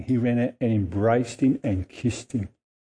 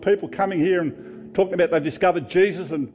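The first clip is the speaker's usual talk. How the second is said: resentful rant; 6 semitones higher than usual. Acted. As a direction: pour out the grievance, pitch rising high. Elder son's resentful complaint.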